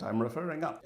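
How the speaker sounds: a faint mock-British official, winding down; lame British accent. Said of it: "This is my lame British accent".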